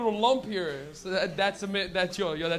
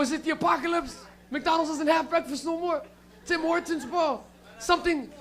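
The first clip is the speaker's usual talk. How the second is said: higher, laughing disbelief at a dumb idea; mock incredulous rant; 4 semitones higher than usual. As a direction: scoff at your buddy's dumb plan. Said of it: "I'm like".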